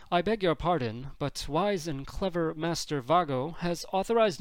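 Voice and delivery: lightly voiced fussy protocol droid; metallic droid voice. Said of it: "metallic voice of an H three P O unit".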